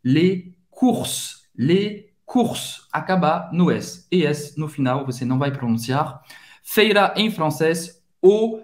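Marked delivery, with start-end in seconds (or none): 0.0-2.9 "courses" with OU said as Portuguese U; U sound, silent S. Shown as a demonstration. Teacher modelling les courses, oo vowel. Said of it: "O U tem o som da letra U".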